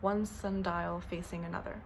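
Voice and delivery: measured, deliberate poetry recital; poem reading. Acted. Poet reading an elegy over bread, measured recital. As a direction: set each phrase apart with a pause.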